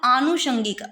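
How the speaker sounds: आनुषंगिक with a held opening aa; आनुषंगिक as aa-nu-shan-gik; long first vowel. Shown as a demonstration. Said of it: "आ होता है".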